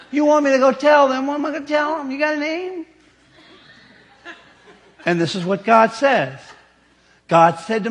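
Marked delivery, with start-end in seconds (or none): 0.1-2.9 high whining complaint; whiny Moses. Retold or imitated. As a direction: plead and whine about the job. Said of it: "in a whiny voice".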